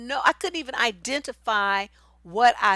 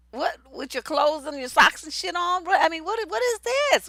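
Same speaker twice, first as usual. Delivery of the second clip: hammed-up disbelief, rising higher to the end; mock incredulity; 6 semitones higher than usual. Woman to partner keeping socks on, mock incredulous. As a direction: pitch climbing into baffled protest.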